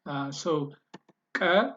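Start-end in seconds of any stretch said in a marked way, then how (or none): 1.4-1.6 single "k" popped as a click. Shown as a demonstration. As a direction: click the "k" sharply. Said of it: "is the one which is voiced or a click".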